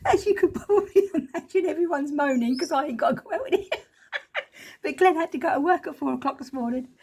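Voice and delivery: giggling through the words; amused laughing chatter. Real, not acted. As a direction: chuckle while telling it. Laughing about family moaning.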